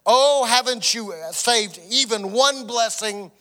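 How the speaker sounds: measured Bible reading voice, slowed on key lines; scripture reading. Acted. Pastor reading Genesis to his church, measured reading. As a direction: read the story to the congregation.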